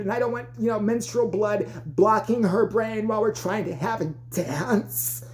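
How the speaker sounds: slow, emphatic mock put-down; coach delivering insults. Coach telling a parent why there's no solo, drawn-out scorn. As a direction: stretch the key insults out.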